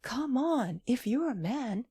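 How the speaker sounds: high, loud hammed-up bravado; mock defiant challenge. A narrator's reading. Tom strikes a fancy pose and challenges anyone, hammed up and loud. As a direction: puff up and dare the room to fight. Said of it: "throws himself into a fancy attitude".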